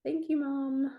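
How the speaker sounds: high, amused sarcastic thanks. Real, not acted. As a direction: roll your eyes and thank her.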